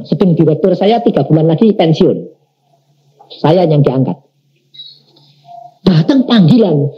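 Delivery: ordinary delivery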